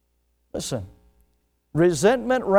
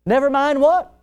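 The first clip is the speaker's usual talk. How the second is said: loud, higher, demanding question; pressing question; 9 semitones higher, 6 dB louder than usual. Retold or imitated. Preacher pressing his angry friend, loud demanding question. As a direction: push back, wanting an answer.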